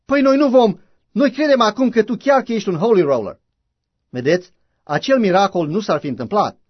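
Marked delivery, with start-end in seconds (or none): 0.0-3.4 a retold rebuke, pitched up; scolding. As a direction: scold him like a hurt sister. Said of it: "avea un drept să-l dojenească".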